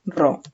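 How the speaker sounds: "Perro" split as pe, pause, rro; syllable by syllable. Shown as a demonstration. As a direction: sound out "Perro" in two separate syllables. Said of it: "Sé que la sílaba P". ("Perro" separado en dos sílabas)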